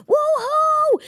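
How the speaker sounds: high, whooping cheer out the window; high-pitched retold victory whoop; gleeful cheer. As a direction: yell it like the city just won. Her own retold cheer from window.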